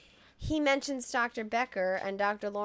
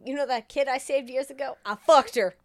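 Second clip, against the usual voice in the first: pretending to be Adrien Brody; 4 semitones higher, 7 dB louder than usual. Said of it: "I pretended to be Adrien Brody".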